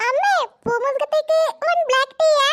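put-on child calling across the house, dragging the words; sing-song call for tea; drawn-out call to mother.

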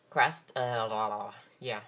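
hoarse voice from allergies; rough, hoarse just-woke-up voice; hoarse morning voice. Real, not acted. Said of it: "You can hear my manly morning voice with the allergies".

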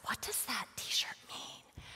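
slow, soft whispered question. Retold or imitated. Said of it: "So I said".

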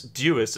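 Jewess for Dewis, starting with a J sound; British pronunciation. Shown as a demonstration. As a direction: say Jewess as "JOO-iss", the British way. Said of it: "is how the British pronounce it".

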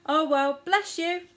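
high, small mouse voice; squeaky mouse voice. A narrator's reading. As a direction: chirp it kindly. The mouse forgives.

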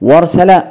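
"وارسل" said as "warsala", wa joined to r; hamza dropped. Shown as a demonstration. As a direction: skip the glottal stop in "وارسل". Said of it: "تحس إن في خلل في الكلمة". (نطق «وارسل» بوصل الواو بالراء دون همزة)

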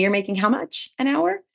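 high incredulous question; mock shocked mentor. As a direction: mentor learning her hourly pay, mock shocked. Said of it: "she said to me".

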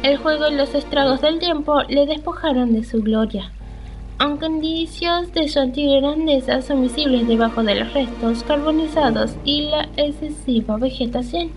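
slightly lifted, measured read-aloud; story narration. Acted. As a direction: narrate the old castle's history from the game text. Reads the game's castle description.

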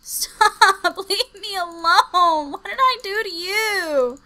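very high, crying shrieks; real hysterical fear; panicked shrieking. Real, not acted. Shrieking fleeing zombie.

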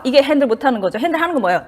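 ordinary talk

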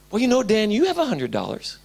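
a light nudging voice, barely changed; tempting inner voice. Retold or imitated. God's nagging voice reminding Dan of his money, lightly voiced. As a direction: nag him gently about the money. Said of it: "I heard this voice".

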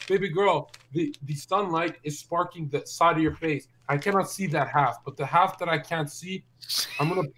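telling friends his chat-up line, low smooth-talk; smooth-talk pick-up. Retold or imitated. Streamer recalls wooing his ex, lightly mocked smooth talk. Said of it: "I was talking like this".

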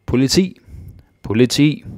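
high, loud cry for the police; urgent call. Shown as a demonstration. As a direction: shout for the police in an emergency. Demo calling police in emergency.

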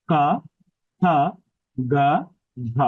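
ক, খ, গ, ঘ each made purely in the throat; throat-only consonants. Shown as a demonstration. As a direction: say ক, খ, গ, ঘ one by one from the throat, tongue resting. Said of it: "শুধু আমরা কণ্ঠের ব্যবহার করে উচ্চারণ করছি". (ক, খ, গ, ঘ শুধু কণ্ঠ থেকে উচ্চারণ)

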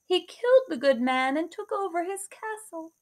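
high, lightly voiced old woman. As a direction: tell it like a sad old crone. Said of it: "the woman replied".

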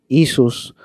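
Isus opening on a long "ee"; Arabic-style pronunciation. Shown as a demonstration. Teacher comparing names across languages, Arabic-style pronunciation. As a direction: say Isus as "EE-sus", no J sound. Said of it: "en árabe también dicen".

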